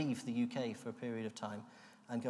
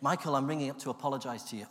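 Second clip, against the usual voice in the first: forced cheerful smile; 3 dB louder, faster than usual. Retold or imitated. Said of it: "put on a smile".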